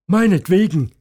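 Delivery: resigned father. Acted. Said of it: "sagt er".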